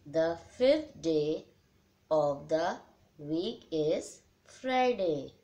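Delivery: very slow teacher dictation, word by word. Shown as a demonstration. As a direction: spell it out slowly so pupils can write. Dictating quiz answers to pupils. (बहुत धीरे बोलकर लिखवाना)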